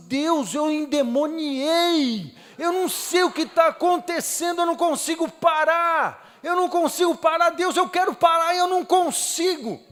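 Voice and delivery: high, loud, pleading cry to God; desperate crying prayer. Retold or imitated. Man sobbing uncontrollably in the car pleads with God. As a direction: shout it out in panic, begging to stop. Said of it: "eu pensava assim".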